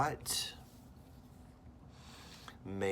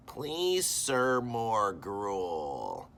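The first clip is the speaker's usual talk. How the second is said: begging orphan; 4 semitones higher, 7 dB louder, much slower than usual. Acted. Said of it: "he always says".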